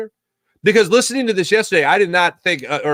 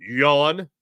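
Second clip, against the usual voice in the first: yawning the word yawn out; a lazy bored yawn; spoken yawn; 5 semitones lower than usual. Real, not acted. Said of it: "you saw me yawn".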